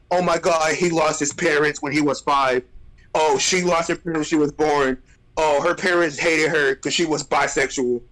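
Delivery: mock their sob-story voice; mocking whiny quote. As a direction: parody of a tragic backstory pitch. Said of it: "they be like".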